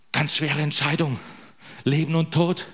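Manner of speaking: imitating an over-earnest believer; mock-grave deliberation. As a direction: agonise theatrically, as if it were life or death. Mock agonising over trivial sock choice.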